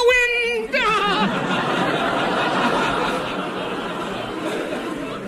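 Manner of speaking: high singsong cackling laugh; miser's sung cackle. Acted.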